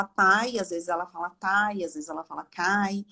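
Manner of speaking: "pai", then "tai", then "cai", first sound changing each time; inconsistent articulation demo. Shown as a demonstration. Therapist explaining a child's inconsistent speech to viewers, inconsistent articulation. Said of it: "isso é ser inconsistente".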